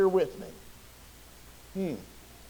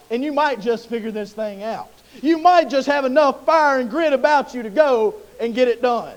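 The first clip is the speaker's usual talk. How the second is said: calm. Acted. God answering Gideon's complaint calmly. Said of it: "God very calmly looks at him".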